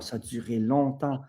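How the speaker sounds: mildly amazed quote. Retold or imitated. Workshop clients telling their teachers about lasting effects, mildly amazed. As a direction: retell it with a touch of amazement. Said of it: "étonnés, genre".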